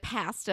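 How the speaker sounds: imitated Canadian vowel in "Pasta". Mocking how Canadians say it, Canadian "Pasta". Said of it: "he's like".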